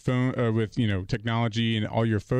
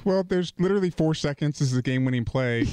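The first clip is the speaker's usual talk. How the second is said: high, exasperated plea; husband mock-pleads during the game-winning play, high; 5 semitones higher than usual. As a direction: plead for four more seconds. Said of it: "I was like".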